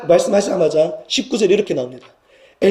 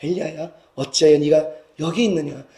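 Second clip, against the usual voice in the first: tender, settled divine question; gentle comfort; 3 dB quieter than usual. Acted. God consoles Elijah with one question, gently. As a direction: ease down into a gentle call. God's comforting call acted once more.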